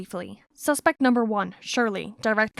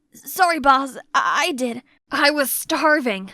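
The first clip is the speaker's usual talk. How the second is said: nervous stammer; 3 semitones higher, 4 dB louder than usual. Acted. Henchman stammers to boss.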